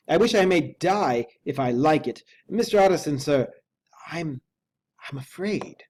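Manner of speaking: high, loud, fearful servant voice; a scared manservant, high and loud; frightened butler. A narrator's reading. Poole's anxious voice in story.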